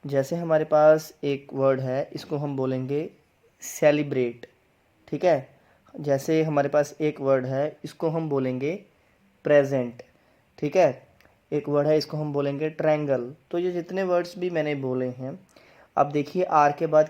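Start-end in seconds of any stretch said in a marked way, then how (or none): 3.6-4.5 सेलिब्रेट with r sounded after b; R pronounced. Shown as a demonstration. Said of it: "आर को र pronounce". 9.4-10.0 प्रेजेंट with r sounded after p; R pronounced. Shown as a demonstration. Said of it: "आर को र pronounce". 12.7-13.3 ट्रायंगल with r sounded after t; R pronounced. Shown as a demonstration. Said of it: "आर को र pronounce".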